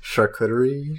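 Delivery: lightly put-on French accent. Cheese board commercial with co-host, mock French accent. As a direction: play at sounding French. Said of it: "Your French accent is good".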